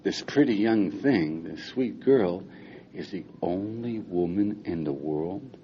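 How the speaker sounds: soft, slow, lingering on each phrase; hushed wonder. Pretend. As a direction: draw them gently into the daydream. Invites listeners to imagine, awestruck.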